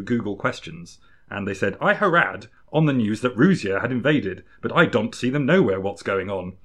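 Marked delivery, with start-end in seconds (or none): 1.8-6.6 quoting a confused lady. Retold or imitated. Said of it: "and I'm quoting them".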